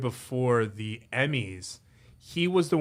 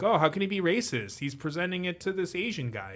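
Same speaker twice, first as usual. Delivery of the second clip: mocking high voice; 6 semitones higher, 4 dB quieter than usual. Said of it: "Being like".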